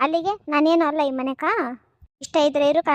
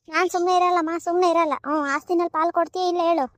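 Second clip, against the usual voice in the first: higher, louder stubborn refusal; defiant outburst; 4 semitones higher, 3 dB louder than usual. Acted. Daughter defies her mother and demands her property share, stubborn and loud.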